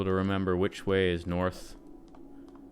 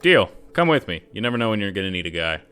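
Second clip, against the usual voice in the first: Eduardo voice; 5 dB louder than usual. Acted. Eduardo agreeing.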